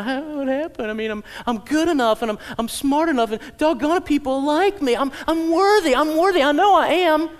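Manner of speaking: rising high, insistent self-praise; pouting older brother. Acted. Preacher mocking the brother's self-worth on the porch.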